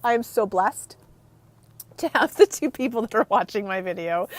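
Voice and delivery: real, restrained welling-up; halting, with pauses as emotion rises; getting emotional. Real, not acted. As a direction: hold it together while feeling moved. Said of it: "now I'm getting emotional".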